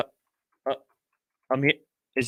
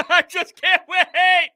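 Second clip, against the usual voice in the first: laughing; 11 semitones higher, slower than usual. Real, not acted. Laughing after the shouting.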